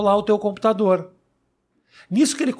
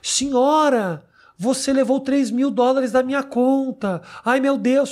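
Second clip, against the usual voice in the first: scammer voice; 5 semitones higher, slower than usual. Retold or imitated. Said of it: "ele fala".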